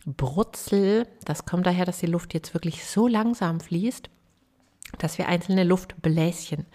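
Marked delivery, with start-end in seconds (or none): 0.1-1.1 creaky sizzling fry; vocal fry crackle. Shown as a demonstration. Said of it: "so kleine Luftpuffs, dieses".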